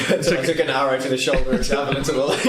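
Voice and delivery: chuckling while reciting the guard line; words broken by laughter; laughing through it. Real, not acted. Player laughing while quoting the old guard line.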